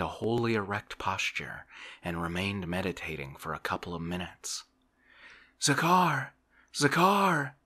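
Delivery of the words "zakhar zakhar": high, louder calling shout. A narrator's reading. Master calling for his servant Zakhar, shouting. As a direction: call the servant across the house. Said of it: "he shouted".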